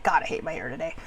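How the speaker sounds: a low, soft, dejected grumble; mopey self-put-down. Retold or imitated. Putting herself down at the mirror: low, soft, dejected. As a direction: mutter it into the mirror. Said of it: "sometimes we get that way".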